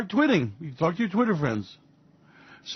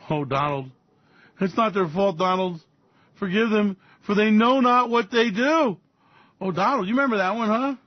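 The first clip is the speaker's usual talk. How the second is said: mock pleading; 5 semitones higher than usual. Speaker pleads with Donald to forgive them, mock preaching. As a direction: plead with him, hammed-up.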